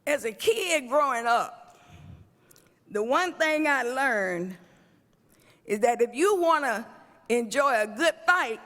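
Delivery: fiery preacher cadence; preaching. Acted. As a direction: preach it to the crowd. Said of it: "I'ma act like I'ma preach".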